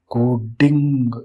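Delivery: कोडिंग stretched slowly, syllable by syllable; teacher drawing out coding slowly; slow, drawn out. Shown as a demonstration. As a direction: let coding linger, slow and deliberate.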